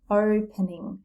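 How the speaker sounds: "opening" with a drawn-out stressed O at the front; stress on first syllable. Shown as a demonstration. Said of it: "The stress is on the".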